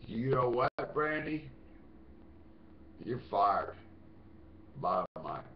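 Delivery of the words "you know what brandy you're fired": calling her out. Real, not acted. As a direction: call her out and dismiss her. Calling out the stalker by name.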